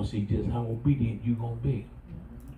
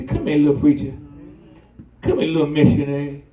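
put-on calling the child; 2 semitones higher, 7 dB louder, faster than usual. Parent calling child playfully.

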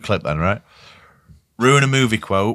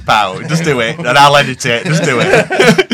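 imitating friend; 3 semitones higher than usual. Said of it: "I just imagine you saying".

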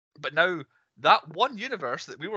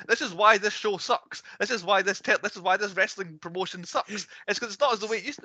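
higher-pitched, exasperated mimicry; mock ranting; 6 semitones higher than usual. Wrestling show running itself down on television, mock ranting. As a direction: imitate a complaint in a raised pitch.

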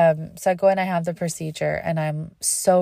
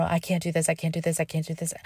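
fading despairing murmur; 7 dB quieter, faster than usual. Retold or imitated. Inner despair, fading to quiet.

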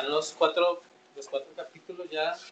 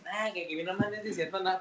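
cholo talk. Retold or imitated. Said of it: "caminando como cholo".

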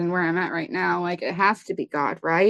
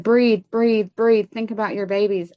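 higher, urgent coaxing, calling her back; urgent pleading; 3 semitones higher than usual. Retold or imitated. Lieutenant doing CPR begs the patient to breathe, urgent higher pleading. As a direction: push each breathe like you're willing her to live.

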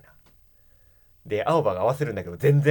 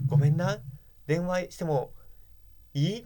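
a light Kansai lilt, higher and sweet; Kansai-dialect Suzu; 6 semitones higher than usual. Retold or imitated. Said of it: "関西弁で話しかけてくるみたいな".

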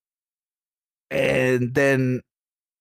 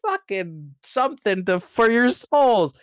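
high mock devil cackle, slow; a hammed-up higher devil voice taunting; devil laugh; 7 semitones higher than usual. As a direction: ham up a gleeful devil. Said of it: "And he's like".

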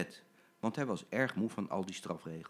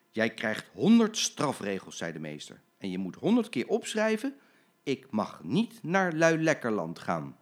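stern teacher; 5 dB louder than usual. Acted. Teacher hands out punishment.

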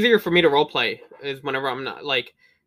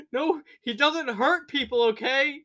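much higher, slow silly voice; mock high voice; 9 semitones higher, slower than usual. Barbarian asking about Gandhi, high silly voice. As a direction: squeak it out childishly.

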